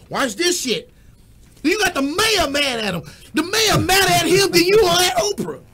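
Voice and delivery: loud, high, worked-up rant; getting fired up about the mayor; heated rant. Real, not acted. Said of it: "Well, let me calm down".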